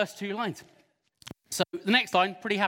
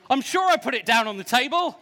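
mock dramatic line; 4 semitones higher, 5 dB louder than usual. Shown as a demonstration. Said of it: "If you like the first one, go".

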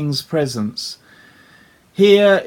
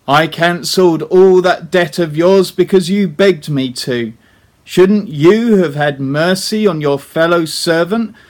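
louder, stern rebuke from the king; the king scolding the unforgiving servant, louder; righteous anger; 4 dB louder than usual. Acted. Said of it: "in his righteous anger".

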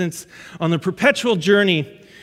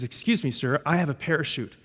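much softer and lower; hushed stewardess; 6 semitones lower, 7 dB quieter than usual. Retold or imitated. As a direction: lean in, confide it quietly. Stewardess voiced quietly, second version.

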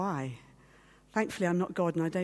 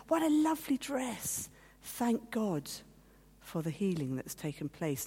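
rejoicing; 2 semitones higher than usual. Retold or imitated. First group admiring the healed woman's dress, mild rejoicing. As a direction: mildly imitate someone rejoicing. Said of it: "they were sort of rejoicing".

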